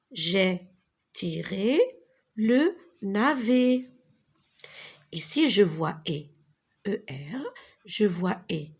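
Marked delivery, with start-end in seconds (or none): 2.4-3.9 le navet slowly, pitch up; slow syllable by syllable. Shown as a demonstration. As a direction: articulate le navet again carefully. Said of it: "model sentence". (le navet articulé lentement)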